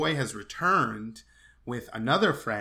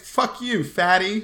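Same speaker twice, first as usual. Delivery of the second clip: high, loud jeering yell; mock yell; 7 semitones higher, 8 dB louder, slower than usual. Boys jeering back at man on balcony, mock yell. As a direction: hurl it up like a heckler. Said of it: "that's what they'll yell".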